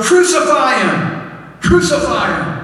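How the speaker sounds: high-pitched imitation of a crowd yelling; mock mob chant, pitched high; retold crowd yell. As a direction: cry out like the mob, drawn out. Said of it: "they yelled".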